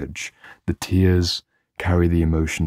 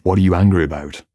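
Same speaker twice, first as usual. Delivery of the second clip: louder, firm challenge to an aggressive client; matching their energy; 4 dB louder than usual. Retold or imitated. Therapist meets an aggressive client's energy with a louder challenge. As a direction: push back, meet them head-on. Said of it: "I can match that energy and be like".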